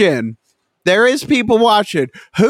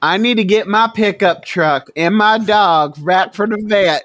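put-on Southern accent. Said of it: "can Murad do a Southern accent".

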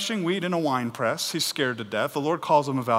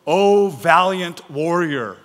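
slow, louder grand salutation; angel's proclamation; 2 semitones higher, 7 dB louder, slower than usual. Acted. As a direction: hail a hero, drawn out. Voicing the angel's grand greeting.

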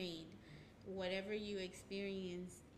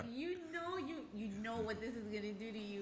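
lightly voiced nagging inner voice, higher and louder; little voice; 4 semitones higher, 5 dB louder than usual. Inner voice scolding someone about to eat badly, lightly voiced little voice. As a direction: play the little voice in your head, pitched up. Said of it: "that little voice is like".

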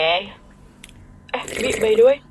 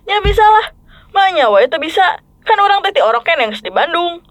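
Sundanese; 5 semitones higher than usual. Acted. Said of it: "jadi harus pakai bahasa Bandung".

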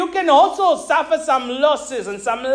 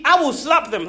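mock threat. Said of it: "Okay, I won't".

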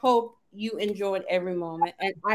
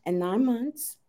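serious voice; 4 dB quieter than usual. Pretend. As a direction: put on a playful mock-serious host voice. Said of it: "this is my serious voice".

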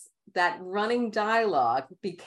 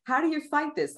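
retold exasperation; 12 semitones higher than usual. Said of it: "And I'm like".

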